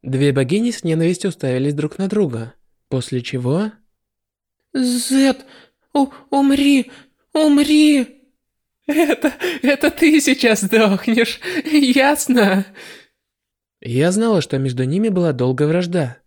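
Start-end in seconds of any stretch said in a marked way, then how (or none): 4.7-8.2 high loud furious battle cry; commanding warrior goddess. Acted. War goddess attacks with hatred. 8.9-12.6 angry. Acted. Villain snaps back in fight.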